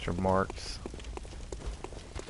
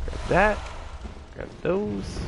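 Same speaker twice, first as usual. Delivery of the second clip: Edgar Poe voice; 10 semitones higher, slower than usual. Acted. Poe voice, high.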